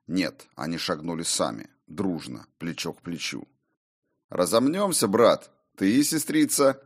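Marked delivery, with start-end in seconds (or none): 4.3-6.8 smirking. A narrator's reading. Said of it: "усмехнулся Кор Двейн".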